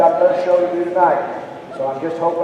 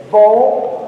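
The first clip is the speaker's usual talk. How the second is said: calling out bon, louder, for the crowd to repeat; leading call; 4 semitones higher, 5 dB louder than usual. Shown as a demonstration. Performer leading the audience in saying bon. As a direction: give the crowd the word to echo. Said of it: "So everybody say".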